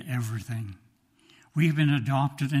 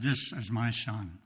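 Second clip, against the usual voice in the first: quiet tender pride; 3 semitones lower, 6 dB quieter than usual. Retold or imitated. Father proudly showing son's picture.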